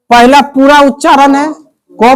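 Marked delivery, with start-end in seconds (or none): 1.9-2.1 "क" drawn out with its whole vowel; full KA sound. Shown as a demonstration. Teacher tells class to say it first, "क" drawn out. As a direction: hold "क" long and complete. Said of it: "क का पूरा क बोलो".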